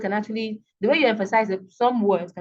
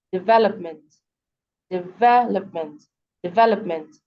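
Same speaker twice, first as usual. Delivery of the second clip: deVELopment, VEL stronger than the other syllables; stress before suffix; 2 semitones lower, 3 dB louder than usual. Shown as a demonstration. Teacher illustrating the suffix rule, VEL in development emphasized. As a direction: hit VEL in development, ending light. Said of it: "primary stress usually falls on the syllable before".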